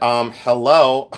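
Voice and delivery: slow, drawn-out sarcastic "hello?". Retold or imitated. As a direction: stretch "Um, hello?" like it's obvious. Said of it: "And I said".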